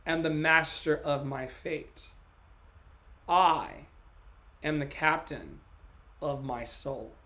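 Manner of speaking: earnest self-affirming recital of Invictus; poem recital. Real, not acted. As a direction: recite it like a vow to yourself.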